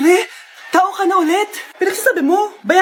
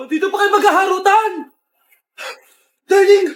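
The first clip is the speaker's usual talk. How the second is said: tearful shouted confrontation; 3 dB louder than usual. Acted. Wife catches cheating husband.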